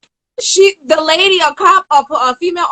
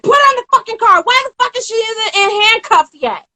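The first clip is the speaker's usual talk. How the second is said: mock angry order; 7 semitones higher than usual. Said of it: "The sergeant's like".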